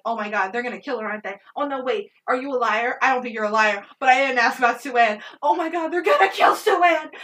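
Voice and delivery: retold movie panic, rising to a cry; rapid panic. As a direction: rattle off worries, then peak in alarm. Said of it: "this is in rapid succession".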